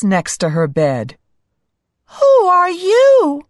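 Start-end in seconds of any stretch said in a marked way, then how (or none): 2.2-3.5 high, loud startled cry. Acted. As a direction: gasp it out in surprise. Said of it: "she cried".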